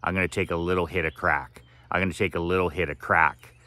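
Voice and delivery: quick, offhand mock shrug; fast breezy imitation of an excuse-maker; mock casual excuse. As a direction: rattle it off lightly as if harmless. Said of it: "That's the same as saying".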